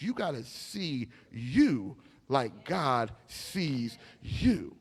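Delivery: normal talking voice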